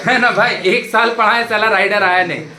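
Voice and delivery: loud, amused, laugh in the voice; joking with a chuckle. Real, not acted. Joking about cursing in the exam.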